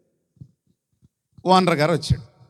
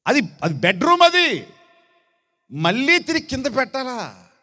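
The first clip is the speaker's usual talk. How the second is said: higher, whiny mock of a lazy excuse; mocking whine; 6 semitones higher than usual. Preacher mocks the bride's lazy excuse with a higher, whiny voice. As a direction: sneer at the excuse.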